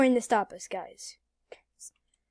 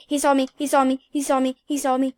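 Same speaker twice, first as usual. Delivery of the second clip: panic; 6 dB louder, faster than usual. Real, not acted. Panicking as a cop spots him.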